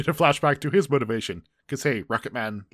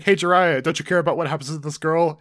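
mock taunting shout, moderately raised voice; retold shouting; 4 semitones higher, 4 dB louder than usual. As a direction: call out the villains' threat, louder at the start. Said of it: "they start shouting".

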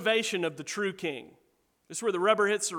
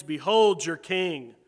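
mocking; 4 semitones lower, 6 dB louder, slower than usual. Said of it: "in a mocking tone".

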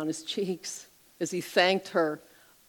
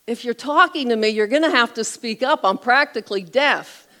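put-on loud deaf old man; 5 semitones higher, 7 dB louder than usual. Deaf old man tells her.

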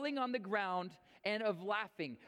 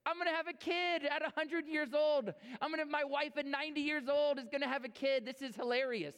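mock delighted laughing; 4 semitones higher than usual. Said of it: "he was laughing like".

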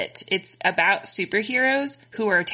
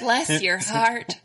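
Southern drawl; 4 semitones higher, much slower than usual. Retold or imitated. Southern Belle joke.

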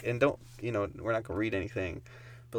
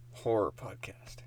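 whispering; 7 dB quieter than usual. Pretend. Spooky whispered title.

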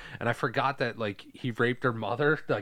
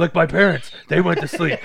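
high, loud innocent put-on voice; naive Penguin impression; 6 semitones higher, 10 dB louder than usual. Clueless Penguin explaining about his victims, imitated naive voice. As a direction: play an oblivious character explaining, pitched up.

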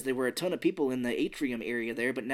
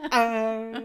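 laughing; 9 semitones higher, 5 dB louder than usual. Real, not acted.

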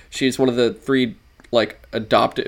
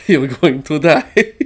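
slow, louder, hammed-up Spanish accent villain threat; mock Antonio Banderas accent; 3 semitones higher, 6 dB louder, slower than usual. Host guessing the villain's line, in a slow, hammed-up Spanish-accent threat. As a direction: growl it slow like a Banderas baddie, sounding vampiric. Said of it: "now I make him sound like a vampire".

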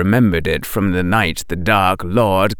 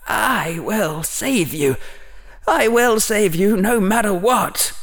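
inner vow; 13 semitones higher than usual. A narrator's reading. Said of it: "Harry thought".

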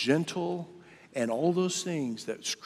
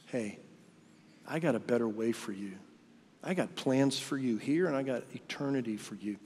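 softer, gentle God speaking kindly; 3 dB quieter than usual. Retold or imitated. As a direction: reassure them like a kind father. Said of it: "He's just kindly and gently saying".

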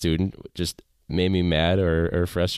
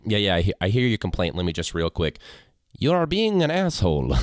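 sweet service voice that turns rude; robot customer service voice. Pretend. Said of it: "conversational robot teacher voice".

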